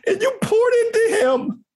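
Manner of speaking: tearing up as he speaks; choked up. Real, not acted. Guest moved to tears thanking mentor Howard, voice cracking. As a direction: voice breaking high with tears.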